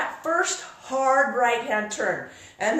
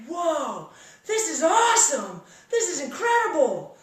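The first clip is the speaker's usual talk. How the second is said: excited laughing; 5 semitones higher than usual. Retold or imitated. Driver gushes to the instructor, laughing excitedly. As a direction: gush through laughter. Retold thrill on the shoulder.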